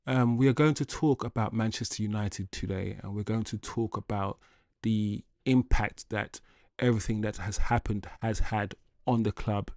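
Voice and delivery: code-switching into a quiet, measured work voice; meeting voice. Shown as a demonstration. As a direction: talk to a client with careful precision. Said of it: "my meeting voice, my work voice".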